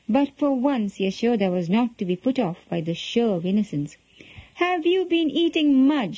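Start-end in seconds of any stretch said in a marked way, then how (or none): 4.5-6.2 high-pitched stern demand, falling at the end. A narrator's reading. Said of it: "she repeated sternly".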